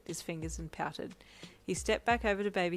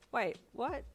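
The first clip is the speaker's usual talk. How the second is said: mildly startled, higher pitch; surprised; 7 semitones higher than usual. A narrator's reading. Uncle hearing his boyfriend wants a baby, surprised. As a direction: react in surprise, pitch jumping up. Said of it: "Uncle Anthony said with surprise".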